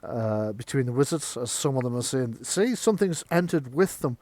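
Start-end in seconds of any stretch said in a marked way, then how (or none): 2.4-4.2 higher, agitated protest; raised-voice insistence; arguing wizard. Acted. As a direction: argue it over the others. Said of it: "this causes a round of arguments".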